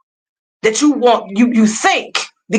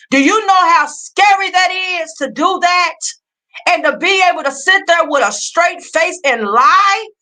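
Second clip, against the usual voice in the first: higher, accusing, peaking on a sharp "Huh?"; heated confrontation; 6 semitones higher than usual. Real, not acted. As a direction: call him out, voice climbing. Confronting liar, peaks at "Huh?.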